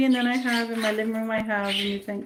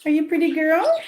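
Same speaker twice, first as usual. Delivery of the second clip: pet talk; 7 semitones higher, 4 dB louder than usual. Real, not acted. Cooing to her pet bird.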